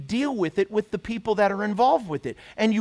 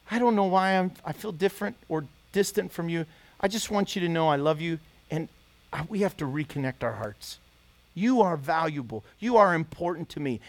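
gentle reconciling words; 4 semitones lower than usual. Shown as a demonstration. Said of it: "You have to be gentle".

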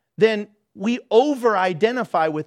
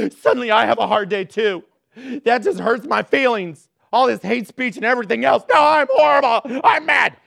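mock whiny student; 4 dB louder than usual. Mocking overreacting student.

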